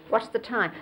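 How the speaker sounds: "What's the time?" with each word set apart; a stiff, word-by-word "What's the time?"; not flowing. Shown as a demonstration. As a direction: break "What's the time?" into separate words. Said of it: "But then it wouldn't be like this".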